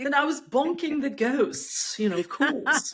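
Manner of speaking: a drawn-out put-on English lady accent; mock posh British accent. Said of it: "It's the American trying to sound British".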